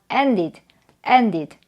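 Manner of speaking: "ended" as two syllables, en-did; id ending. Shown as a demonstration. Teacher modelling the id rule, "ended" as en-did. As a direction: say "ended" with a full -id. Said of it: "id로 발음을 해주시면 되고요".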